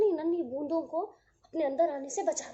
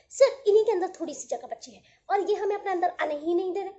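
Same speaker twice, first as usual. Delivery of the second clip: pleading little droplets; 5 dB louder, faster than usual. Acted. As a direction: beg to be let in like tiny drops.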